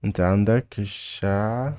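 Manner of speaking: "الشع" stretched and left hanging with a rise. Shown as a demonstration. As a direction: hold the cut-off "الشع" long, rising. Teacher breaking the phrase down.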